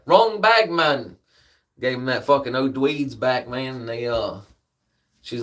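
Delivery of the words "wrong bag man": louder, higher insistence on the mistake; wrong bag, said loud and high; annoyed complaint. Retold or imitated. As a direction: push the point at the counter. Complaining at the counter.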